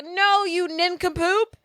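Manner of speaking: high, slow imitated whine; mock crying. Daughter confessing her crush to dad, mock crying. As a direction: play a lovesick teen wailing, drawn out. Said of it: "And then she starts crying".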